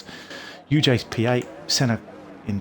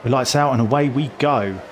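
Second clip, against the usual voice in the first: loud race start call; excited call; 3 semitones higher, 6 dB louder than usual. Real, not acted.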